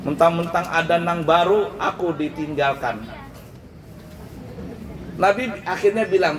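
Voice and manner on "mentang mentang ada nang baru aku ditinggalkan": hammed-up wail starting high, then sulking; mock wailing. Palm stalk wails to the Prophet, hammed-up crying. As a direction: playfully wail as a jilted lover. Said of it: "tambah meraung dia".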